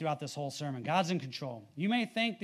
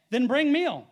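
higher, louder scripture command; loud declaration; 7 semitones higher, 8 dB louder, slower than usual. A narrator's reading. Preacher reading Elisha's answer to the congregation, loudly declaring. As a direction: proclaim the prophet's order out loud.

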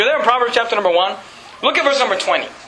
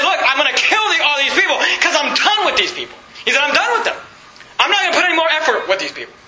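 higher-pitched exasperated declaration; fed-up God; 4 semitones higher, faster than usual. Acted. Preacher acting God done with these people, exasperated. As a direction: voice God losing patience, pitched up.

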